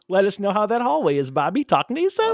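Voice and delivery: radio voice. Pretend. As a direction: croon the sign-off like a DJ. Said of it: "Get my radio voice on".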